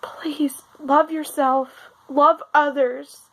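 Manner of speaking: slow, tearful plea; after crying. Real, not acted. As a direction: plead gently after tears.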